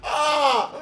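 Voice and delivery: real bursts of laughter, high and loud; helpless laughter breaking through the words; laughing hard. Real, not acted. Cracking up at a clip.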